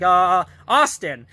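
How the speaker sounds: slow, drawn-out mock hesitation; stalling for a name. Jack invents his twin's name, mock stalling. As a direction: imitate someone grasping for a name. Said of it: "he can't think of a name real quick".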